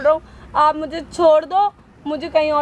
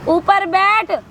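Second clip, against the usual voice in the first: ऊपर बैठ repeated higher and sharper; firmer repeat; 5 semitones higher, much slower than usual. Acted. Woman repeats ऊपर बैठ to the man, more forcefully.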